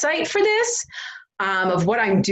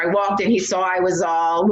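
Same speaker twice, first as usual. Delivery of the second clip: ordinary talk, nothing marked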